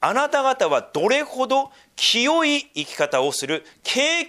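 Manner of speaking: 終わりへ向けて声を細めていく厳かな朗読; 聖句を重々しく読み上げ最後はささやく; 聖書朗読. Acted. Reads scripture aloud. (厳かな聖書朗読、最後はささやき)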